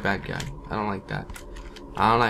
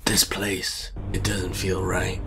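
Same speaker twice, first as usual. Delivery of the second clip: creeped-out hush; 4 semitones lower, slower than usual. Real, not acted. Creepy apartment, hushed.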